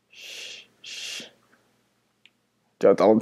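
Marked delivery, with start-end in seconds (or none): 0.1-1.2 shushing. Real, not acted. Shushing friend in scary game.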